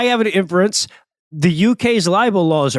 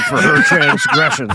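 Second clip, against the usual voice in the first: slow, grand vengeful oath ending in a laugh; mock villain vow; slower than usual. Podcast host hams up a sworn vendetta, slow and grand. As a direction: swear revenge like a cartoon villain.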